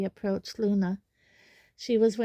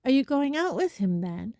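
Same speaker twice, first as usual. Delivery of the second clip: higher, louder, amazed question; wide-eyed question; 5 semitones higher, 4 dB louder than usual. A narrator's reading. Parvati probing Hermione about Cormac, wide-eyed amazement. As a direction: ask it in eager astonishment. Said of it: "asked Parvati wide-eyed".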